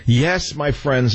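slow grand theatrical address. Acted. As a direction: draw it out like a stage actor. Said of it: "very theatrical".

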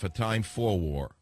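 slow correction, leaning on "for" in "A Time for War"; stress on FOR. Shown as a demonstration. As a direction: correct the title slowly, hitting "for". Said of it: "close enough".

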